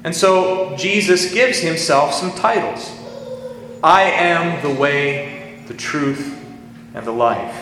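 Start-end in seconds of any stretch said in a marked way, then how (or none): 3.8-7.6 slow, weighty stress on "I am", each title spaced out; solemn, drawn-out proclamation of "I am"; I AM in all caps. Retold or imitated. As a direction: lean hard on "I am" and take it very slowly. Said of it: "the words that are used there are in all caps".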